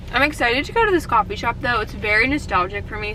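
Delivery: talking while chewing; mouth full. Real, not acted. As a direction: say it around a bite of food. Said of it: "talking with my mouth full".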